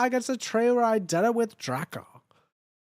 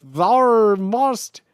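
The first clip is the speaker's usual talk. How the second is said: mock Australian accent; 2 semitones higher, 8 dB louder than usual. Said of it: "worst Australian accent".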